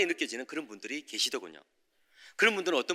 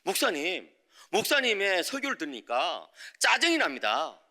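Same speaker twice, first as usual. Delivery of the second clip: mildly irritated complaint, drawn out; annoyed confrontation; slower than usual. Retold or imitated. Church member confronts the preacher after the sermon, mildly annoyed. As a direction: retell a testy challenge, stretching the words slowly. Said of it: "저한테 막 따지는 거예요".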